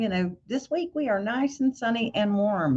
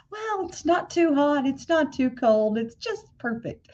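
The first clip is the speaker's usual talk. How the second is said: pageant contestant answer; 7 semitones higher than usual. Retold or imitated. Quoting the Miss Congeniality contestant to viewers, mock pageant voice. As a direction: play the pageant girl giving the perfect answer. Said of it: "Miss Congeniality".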